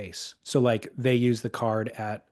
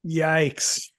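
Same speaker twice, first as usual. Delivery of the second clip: whispered yikes; 5 semitones higher, 3 dB louder than usual. Real, not acted. Reacting to a grim joke.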